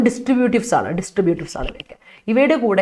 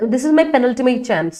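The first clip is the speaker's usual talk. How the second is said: slow, word by word; slow model sentence; much slower than usual. Shown as a demonstration. Teacher reading an example sentence slowly to students. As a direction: read it out slowly for the class. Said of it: "this is, this is".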